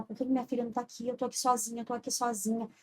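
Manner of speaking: soft, subdued murmur of abandonment; retold lonely plea. Woman retelling her crisis alone in hospital, soft retold plea. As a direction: quietly relive a lonely complaint. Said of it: "eu só conseguia falar".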